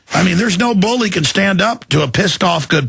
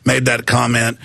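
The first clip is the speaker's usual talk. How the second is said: lower, subdued apology; real sincere apology; 4 semitones lower than usual. Real, not acted. Host apologizes to wife and children for swearing, sincerely. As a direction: pull back and own up to the outburst.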